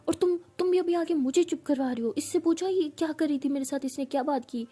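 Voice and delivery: hurt and snapping back at her friend; indignant outburst. Retold or imitated. Amara accusing friends in fight.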